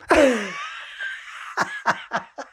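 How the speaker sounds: emotional high-pitched laughter, trailing off; real laugh bursting out in pulses. Real, not acted. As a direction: let out a long, high, helpless laugh.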